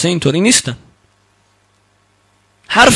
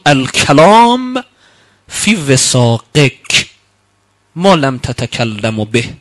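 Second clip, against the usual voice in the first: slow recitation; 2 semitones lower, much slower than usual. Acted. Reciting Arabic hadith slowly.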